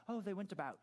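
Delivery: a playful hint of British English; mock British accent. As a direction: say it like a posh Brit, tongue in cheek. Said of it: "put on your British accent".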